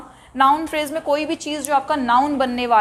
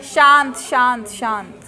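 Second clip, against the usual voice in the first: real hushing; much slower than usual. Real, not acted. Teacher hushes the noisy class.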